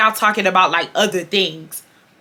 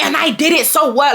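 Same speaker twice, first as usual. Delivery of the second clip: higher-pitched mock defiance; defiant comeback; 5 semitones higher than usual. Boy answering July back, defiant. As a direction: imitate a boy giving attitude right back. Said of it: "he giving her every bit of action back".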